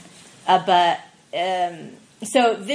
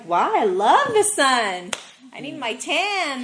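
retold exclaim; 5 semitones higher, 4 dB louder than usual. Retold self answering friends.

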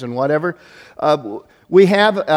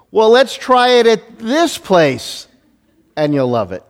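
coaxing wife; 8 semitones higher, 5 dB louder, slower than usual. Retold or imitated. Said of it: "what she keeps saying is".

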